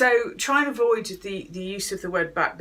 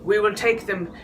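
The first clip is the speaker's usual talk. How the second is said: Churchill impression; 4 dB louder than usual. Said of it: "Churchill had said".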